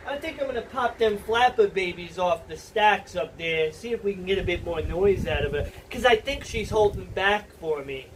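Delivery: put-on a lightly done drifting New York-ish trucker accent; weird put-on accent. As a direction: play a folksy truck guy, accent wandering a little. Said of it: "this weird accent that's kinda going all over the place".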